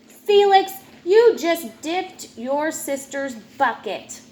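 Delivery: loud, high Felix; scolding call. Acted. Grandpa calling Felix to account, loud. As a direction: call his name sharply.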